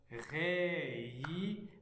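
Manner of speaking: réhydraté slowly as ré, y, dra, té; drawn-out, separated syllables in réhydraté. Shown as a demonstration. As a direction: read réhydraté one held syllable at a time. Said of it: "lire les mots syllabiquement".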